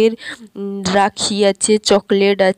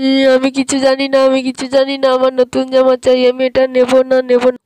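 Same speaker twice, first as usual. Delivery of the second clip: whiny tantrum; 2 semitones higher than usual. Acted. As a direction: sulk and demand like a spoilt child. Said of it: "কান্নাকাটি করিস না". (ঘ্যানঘ্যানে কান্নার আবদার)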